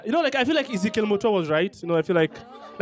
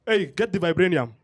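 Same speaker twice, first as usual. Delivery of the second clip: mock Hollywood African accent; lightly hammed Hollywood African accent. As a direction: put on a movie-style African accent. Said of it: "talk to my phone in that accent".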